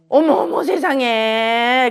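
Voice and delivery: client's sad story makes her gasp in shock; real shock. Real, not acted. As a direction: react as if stunned by the news. Reacting to widowed sisters.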